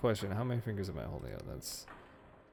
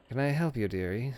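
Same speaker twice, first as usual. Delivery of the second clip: lightly voiced prim old librarian, politely wary; a hint of a fussy librarian greeting a stranger; 3 semitones higher than usual. Game master voicing a librarian at her desk, lightly prim.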